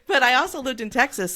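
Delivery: said through a laugh; laughing at her own Texas roots. Real, not acted. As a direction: let the laugh break into the words. Repeats line through laughter.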